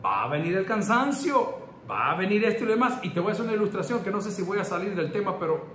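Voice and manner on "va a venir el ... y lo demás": head pastor's warning. Retold or imitated. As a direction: drag out the first words like a seasoned elder. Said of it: "el pastor general me decía".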